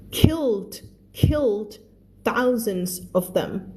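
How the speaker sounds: reads each English word slowly and clearly for learners; slow, careful read-aloud for the class; slow story reading. Shown as a demonstration. Teacher reads the book slowly to her students, careful read-aloud.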